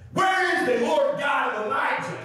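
high-pitched dramatic cry to God; Elisha. Acted. Acting Elisha calling out at Jordan.

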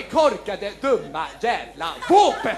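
mock creepy narrator scorn; low slow sneer.

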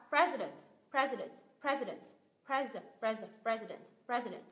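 "President" with weight on PRE; first stressed, rest unstressed. Shown as a demonstration. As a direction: weaken the last two syllables of "President" to schwa. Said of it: "hai âm này không được nhấn".

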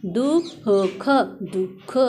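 दुख with a breath of ह after दु; careful teaching demo of दुख, h in the middle. Shown as a demonstration. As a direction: sound out दुख as "duh-kha". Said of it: "दु के बाद ह की साउंड आएगी".

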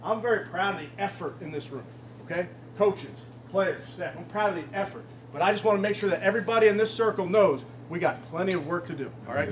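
calm the room down earnestly; sincere. Real, not acted. Coach calm after victory.

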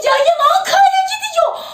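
high-pitched, slow, drawn-out cry; excited announcement. Real, not acted. Streamer alerting viewers to ten thousand, excited cry. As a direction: stretch it out, thrilled. Tetikte durun.

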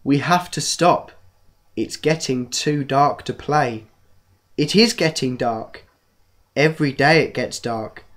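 slow storybook reading voice; reading to children. Acted. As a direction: read it like a bedtime story. Reads a children's book aloud.

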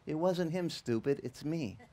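lightly hushed inner voice; still small voice. Retold or imitated. God answering inside the pastor's head, quiet little voice. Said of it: "this little still voice".

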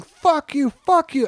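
high-pitched retold scream, held back in volume; strained high mock yell; mock lunatic screaming. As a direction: imitate a raving comic screeching. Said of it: "like a lunatic and screaming".

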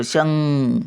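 "शं-," held on a humming "ng"; ङ चा उच्चार. Shown as a demonstration. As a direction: stop on shang and let the nasal ring. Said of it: "आणि उचलतो शब्द". ("शं-," ङ लांबवून)

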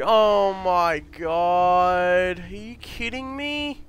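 raging gamer. Real, not acted. Gamer despairs after failure.

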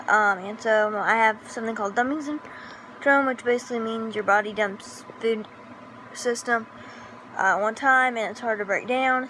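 breathless, hiccuping while talking; out of breath with hiccups. Real, not acted. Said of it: "that's why I sound really out of breath".

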